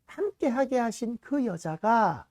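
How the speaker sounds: a guilty man shifting the blame; Adam's excuse. Acted. Adam excuses himself to God.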